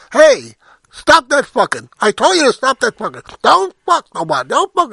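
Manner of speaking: loud, high shout from up above; yelling. Acted. Man up a palm tree yelling down at castaways, yelling. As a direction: holler down at them to stop. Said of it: "he starts yelling".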